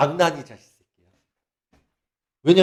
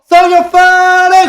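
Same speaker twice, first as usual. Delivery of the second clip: slow, much higher, loud chant; disco shout; 12 semitones higher, 11 dB louder, much slower than usual. Retold or imitated. Mock disco worship, a slow loud high shout. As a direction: belt it like a dance-floor chant. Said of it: "디스코".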